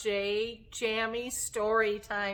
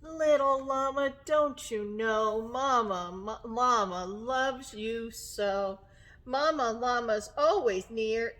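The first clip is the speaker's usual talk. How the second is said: reassuring mama; 4 dB louder, slower than usual. Acted. Mama llama tells baby she loves him, gentle reassurance. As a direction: soothe slowly, settling down at the end.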